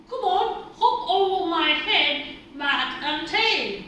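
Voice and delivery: loud, urging instruction; encouraging call. A narrator's reading. Alligator tells friends to hop across, encouragingly. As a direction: urge them on with a loud call.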